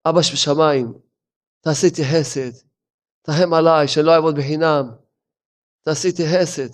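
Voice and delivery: a touch of soft pleading prayer; humble prayer. Shown as a demonstration. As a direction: plead gently to God. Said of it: "עם הקדוש ברוך הוא אתה מדבר". (תפילה רכה ומתחננת)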